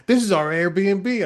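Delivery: put-on slow, proud old Maine man; imitating a chatty Maine neighbour; lightly voiced Maine accent, drawn out. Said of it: "I love that you did the accent".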